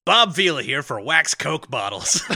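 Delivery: hint of a hearty mock endorsement; Bob Vila. Host spoofing a pitchman to co-host, mock ad read.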